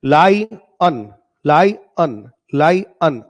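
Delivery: लायन said as "lai-en", two clear syllables; slow drilled लायन, "lai-en"; correct pronunciation. Shown as a demonstration. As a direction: repeat लायन slowly, "lai" then "en". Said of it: "इसको ऐसे पढ़ो".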